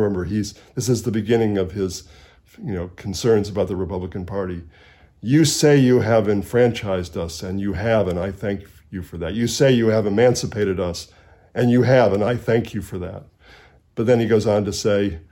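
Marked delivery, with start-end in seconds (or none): 5.2-13.2 sarcastic Douglass. Retold or imitated. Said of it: "in a very sarcastic way".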